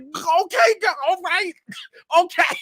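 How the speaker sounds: high, loud and breaking into laughter; helpless high-pitched laughing reenactment; overwhelmed, shaken squeal. Retold or imitated. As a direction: squeal it out as if being shaken in a bear hug. Acts being shaken in bear hug.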